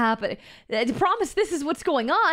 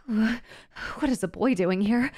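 lurking monster; 5 semitones lower, slower than usual. Pretend. Monster voice lowered and slow.

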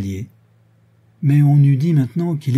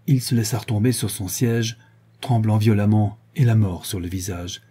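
ordinary delivery

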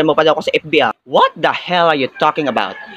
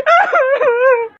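mock wail; 4 dB louder than usual. Wail after the taunt to cry.

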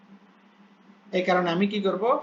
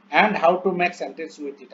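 slow dictation reading; 3 dB louder, much slower than usual. Shown as a demonstration. Reads English plan aloud slowly.

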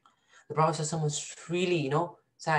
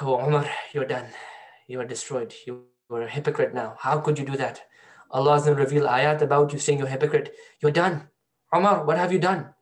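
self-reproach. Retold or imitated. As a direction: berate yourself more and more. Umar scolding himself, despairing.

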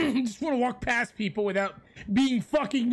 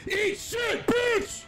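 raging gamer; 5 semitones higher, slower than usual. Real, not acted. Taunting a beaten opponent.

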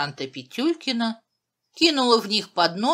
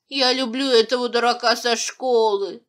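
loud, higher, distressed confession; mildly tearful raised voice, no sobbing; 5 semitones higher, 6 dB louder than usual. A narrator's reading. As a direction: blurt it out, upset. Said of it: "заплакала Джангретта".

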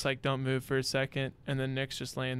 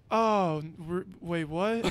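mock startled confusion; 4 semitones higher, slower than usual. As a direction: stumble over the words, imitating someone caught out. Retold friend caught off guard.

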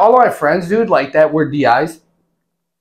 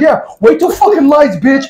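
retold threat; 8 semitones higher, 3 dB louder than usual. Acted threat to recruits.

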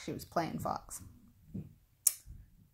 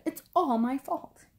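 higher, mounting distressed wail; very upset; 6 semitones higher, 4 dB louder than usual. A narrator's reading. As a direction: wail it with stress on "all". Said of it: "Fox was very upset".

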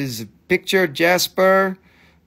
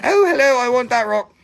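imitating Dana; 9 semitones higher, 6 dB louder than usual. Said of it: "She's like".

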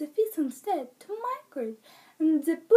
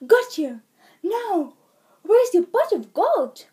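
triumphant grab; 5 semitones higher, 8 dB louder than usual. Acted. Pet grabs the leprechaun.

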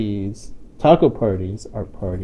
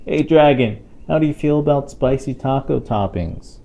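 calling out; 5 semitones higher, 3 dB louder than usual. Acted. Calling to the dragon in book.

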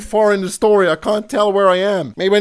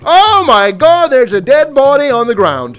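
shocked gasp; 5 semitones higher, 6 dB louder than usual. Real, not acted. Discovering a body in the house, shocked gasp. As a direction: react in startled disbelief.

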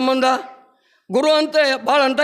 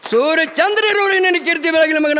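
put-on raised, ringing voice of an old guru blessing; solemn blessing; 4 semitones higher than usual. Guru blessing Sharif with his hand on his head, raised and solemn. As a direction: bestow the blessing high and full.

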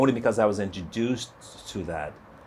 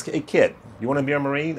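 tough drill sergeant; 4 semitones higher than usual. Retold or imitated. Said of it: "the drill sergeant, tall, voice, tough".

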